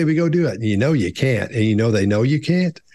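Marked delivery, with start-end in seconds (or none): 0.0-0.5 higher-pitched mock cocksure urging; breezy, overconfident call to action. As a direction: imitate someone sure it can be done. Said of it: "the person who's overconfident".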